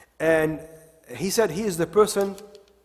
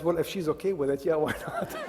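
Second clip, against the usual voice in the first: laughing imitation; 6 dB quieter than usual. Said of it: "the young person says".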